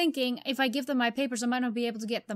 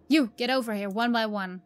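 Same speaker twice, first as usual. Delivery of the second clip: soldier barking orders; 5 dB louder than usual. Acted. Soldier orders people at checkpoint.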